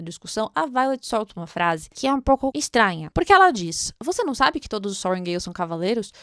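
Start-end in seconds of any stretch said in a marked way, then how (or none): 4.0-6.1 a touch of quick, mock-ironic quoting; lightly tossing off the line with irony. Violet snaps back at Dain, mildly ironic. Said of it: "De uma forma bem irônica".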